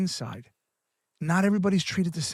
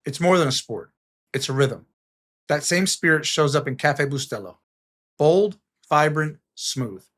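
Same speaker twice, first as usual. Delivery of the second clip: smooth, savoring coffee ad voice; ad read; 3 dB louder than usual. Acted. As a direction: sell the coffee like a radio spot.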